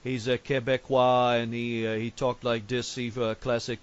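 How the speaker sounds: put-on light French Canadian accent; hint of a French Canadian accent. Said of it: "You don't like it when I talk like a French Canadian?".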